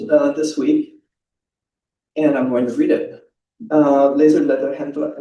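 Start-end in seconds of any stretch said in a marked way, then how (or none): 3.7-5.2 put-on name said in a light German accent; a hint of German on Lederhändler; lightly German-accented name. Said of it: "I wanna say it with the German accent".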